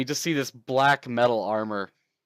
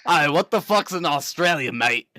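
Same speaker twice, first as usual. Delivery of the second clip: mock Australian accent; 3 semitones higher, 4 dB louder than usual. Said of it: "Why is this fucker Australian now?".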